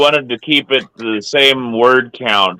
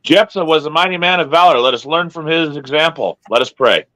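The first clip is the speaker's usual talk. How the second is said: mock preacher; 3 semitones higher, much faster than usual. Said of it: "His sermon was this".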